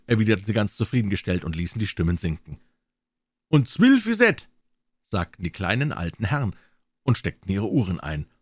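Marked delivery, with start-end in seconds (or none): 3.5-4.5 much higher, louder, slow; high dialect squeak. Acted. Little old men confirming twelve in a high slow voice. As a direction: drawl it out pleased, high.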